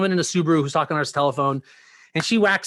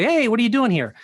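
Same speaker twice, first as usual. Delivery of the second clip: higher, called-out mock police challenge; retold officer's challenge; 6 semitones higher, 4 dB louder than usual. Officers stopping son near home, retold as a challenge. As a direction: hail him with suspicion, lightly acted.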